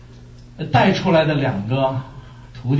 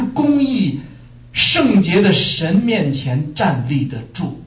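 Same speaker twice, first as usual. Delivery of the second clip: Jesus warning the women; 4 semitones higher than usual. Acted. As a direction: speak as Jesus, earnest and pleading. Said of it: "耶稣回过头来看，说".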